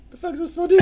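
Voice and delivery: mock outrage at a silly ad; incredulous yell. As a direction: yell at the screen in disbelief. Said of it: "and you're like".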